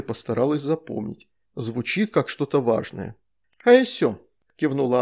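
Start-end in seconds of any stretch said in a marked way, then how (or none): 3.6-4.2 put-on high, bright child's reply; chirpy little girl. A narrator's reading. Veronika agreeing with the shadow, high and chirpy. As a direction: answer like a happy small girl.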